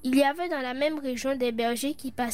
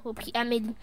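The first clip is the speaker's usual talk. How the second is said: usual speaking voice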